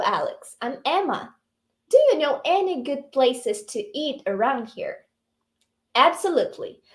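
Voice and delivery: slow, clear reading of both parts; dialogue reading. Acted. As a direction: read the dialogue slowly for learners. Reads dialogue aloud. (leitura lenta e clara do diálogo)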